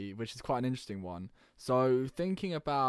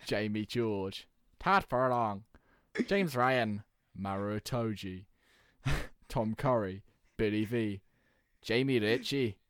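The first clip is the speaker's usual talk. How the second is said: naming each player in a hammed-up accent of his home country; mock national accents; 3 dB louder, slower than usual. Reading his team sheet to friends, mock accent for each player. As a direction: rattle off the squad in half-hearted regional accents. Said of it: "You gotta do it in the accent of where they're from".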